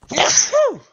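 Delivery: a sudden loud sneeze; real sneeze mid sentence; sneezing. Real, not acted. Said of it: "Excuse my sneeze there".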